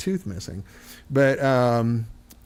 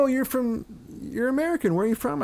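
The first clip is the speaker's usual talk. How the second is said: much higher-pitched, curious stranger; imitated Birmingham local; 11 semitones higher, 4 dB quieter than usual. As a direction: mimic a friendly local questioning a visitor. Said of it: "and they would go".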